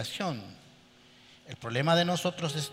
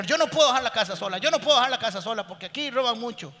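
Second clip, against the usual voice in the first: fast, higher, louder mock protest; man telling his wife why he won't go to church, mock fretful; stubborn excuse; 5 semitones higher, 3 dB louder, faster than usual. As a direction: insist you can't leave the house. Man refusing to leave house.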